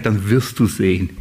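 a low, calm told-you-so; low, knowing reply. Retold or imitated. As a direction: drop the voice low and firm. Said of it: "sag ich".

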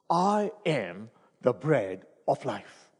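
slow, weighty, every word set apart; slow and solemn. Shown as a demonstration. Preacher slowly savouring the verse before the church. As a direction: let each word land slowly. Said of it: "Look at the repetitions".

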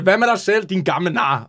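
cheeky mock heckle back at the coach; half-shouted playful insult; silly shout. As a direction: call it out like a daft retort. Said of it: "Du råber noget silly".

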